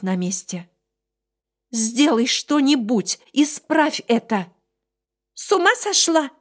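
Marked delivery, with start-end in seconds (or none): 1.7-4.5 desperate demand. Acted. Heroine begs creature, furious. 5.3-6.3 high indignant little beast; outraged creature. Acted. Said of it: "возмутился Ночень".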